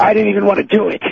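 high, winded and upset; out of breath. Real, not acted. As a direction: protest loudly while fighting for air. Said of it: "Why are you still out of breath?".

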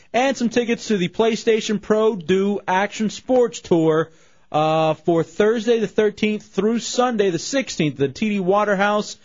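upbeat radio promo read; radio contest promo. Acted. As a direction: sell the prizes like a DJ.

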